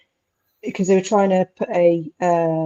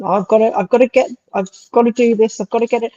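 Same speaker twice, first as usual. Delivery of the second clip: a hint of an African accent, pitched a little higher; 3 semitones higher, faster than usual. Patient mimicking the rough nurse in a mild African accent. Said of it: "saying in her African fucking, um, accent".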